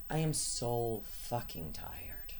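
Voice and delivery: slow, heavy exhaustion; dragging each word out; exhausted, drawn-out. Real, not acted. Repeated slower, heavier.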